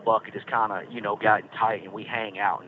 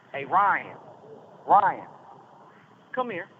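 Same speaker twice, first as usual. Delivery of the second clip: calling out; 6 semitones higher, slower than usual. Real, not acted. Calling his buddy over.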